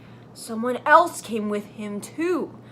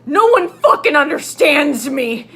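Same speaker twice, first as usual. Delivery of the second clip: shouted angrily; 2 semitones higher, 6 dB louder than usual. Acted. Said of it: "he shouted angrily".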